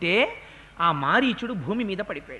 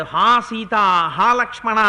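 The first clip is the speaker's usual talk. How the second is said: louder dying cry for Sita and Lakshmana; 5 dB louder than usual. Retold or imitated. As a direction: call out loudly in a retold cry. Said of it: "అందుకని గట్టిగా కేకేశాడు".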